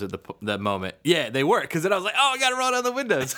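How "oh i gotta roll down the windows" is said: high, laughing mock alarm; laughing tease. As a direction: tease him while cracking up. Teasing friend about fart.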